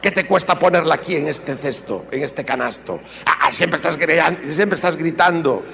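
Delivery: wife nagging husband, mock shrill scold. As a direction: scold him about the laundry. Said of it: "ahora se hizo más gargantosa".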